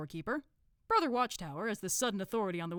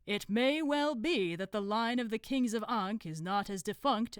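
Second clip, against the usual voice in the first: slow, lightly pompous oratory; Supreme Grand Master; 3 semitones higher, 5 dB louder, slower than usual. Acted. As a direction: announce a discovery with measured ceremony. Grand Master's ceremonial speech.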